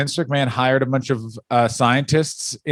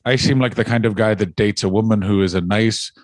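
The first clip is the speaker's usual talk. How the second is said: much lower, mock Irish growl; low Sheamus voice; 6 semitones lower than usual. Much lower mock Sheamus voice pitched at his cohost. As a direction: sink the voice way down as Sheamus. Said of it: "Hello, I'm Sheamus".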